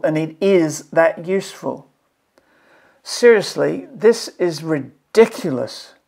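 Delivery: exasperated plea to the curriculum writers; worked up and indignant; emotional exasperation. Real, not acted. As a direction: plead in real frustration, leaning on key words. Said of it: "I'm sorry for getting emotional".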